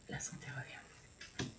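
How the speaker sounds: breathy whispered repeat, slow; soft slow whispered affirmation. Real, not acted. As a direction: whisper it back to yourself like a secret.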